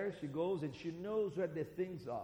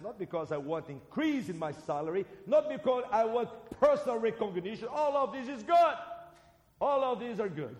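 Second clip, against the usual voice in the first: from steady to high, loud proclamation; building preaching; 8 semitones higher, 8 dB louder than usual. Acted. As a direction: rise to full preaching force. Preaching crescendo.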